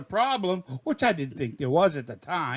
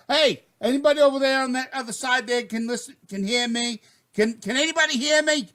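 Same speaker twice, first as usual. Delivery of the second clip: higher-pitched frantic radio call, mildly acted; mock screaming; 7 semitones higher than usual. Frightened boatman radioing the dock for help, mock screaming. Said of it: "I'm screaming, I'm screaming".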